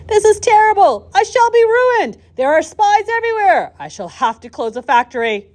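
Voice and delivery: high, loud cry of despair; anguished shout. A narrator's reading. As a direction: shout it like a ruined man tearing at his beard. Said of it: "tore his beard and shouted".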